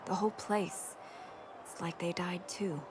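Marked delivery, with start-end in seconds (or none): 1.6-2.8 soft, breathy, fading; hushed sorrow; grieving whisper. Real, not acted. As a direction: whisper the loss. Grieving her mother.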